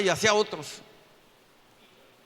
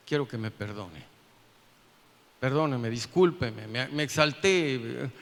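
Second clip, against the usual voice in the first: lower, subdued plea for forgiveness; contrite apology; 6 semitones lower than usual. Retold or imitated. Man apologising to his pastor after a quarrel, contrite. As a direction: humbly ask pardon, slowing at the end.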